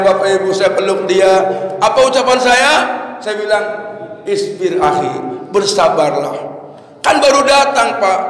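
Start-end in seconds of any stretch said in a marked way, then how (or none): 4.3-6.3 low, gentle words to the bereaved; lower-pitched, tactful comfort; gentle consoling. Retold or imitated. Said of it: "Sopan santunnya, etikanya bilang gitu".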